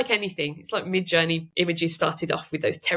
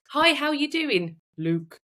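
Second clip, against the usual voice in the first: mismatched spliced-in name; 7 semitones higher, slower than usual. Shown as a demonstration. Showing how a swapped-in name would jar, mismatched splice. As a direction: sing out the greeting, drop flatly onto the name. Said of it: "So it doesn't sound like".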